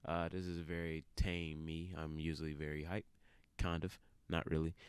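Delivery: half-awake at three a.m; tired. Real, not acted. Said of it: "I'm very tired".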